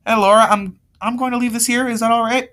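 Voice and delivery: high-pitched voice for a caller; lightly voiced high girl's voice; girl on the phone. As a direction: pitch it up as a girl phoning a friend. Girl on phone call, acted.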